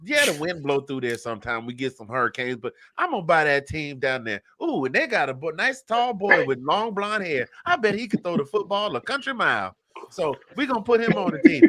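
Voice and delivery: high-pitched Texan tycoon; hammed-up Texas billionaire talking big; Texas accent. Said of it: "make him sound like somebody from Texas".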